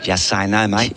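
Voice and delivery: mock Aussie twang on "Just say no, mate"; a hint of Aussie, teasing; Australian accent. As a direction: drop into a light Australian voice. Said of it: "she doesn't sound like that".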